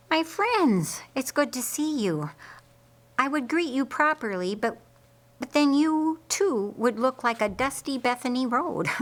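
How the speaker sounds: high, hearty welcome; hearty greeting. Acted. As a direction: greet old friends with a grin. Simon greets friends cheerfully.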